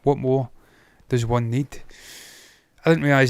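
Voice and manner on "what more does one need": put-on old English. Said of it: "I'm gonna speak like an old English guy".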